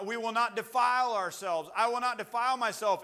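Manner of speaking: loud, high vow of refusal; preacher voicing a bold refusal; defiant declaration. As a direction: declare it firmly, ringing out. Voices Daniel's defiant refusal.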